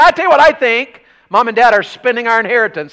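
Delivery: high, loud griping brother; imitating brother. Brother complaining about the paved driveway, high and loud. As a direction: gripe like a jokey brother.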